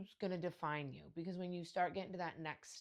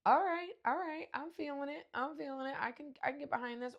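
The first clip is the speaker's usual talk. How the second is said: hyped approval; 10 semitones higher, 5 dB louder than usual. Retold or imitated. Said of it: "where you're like".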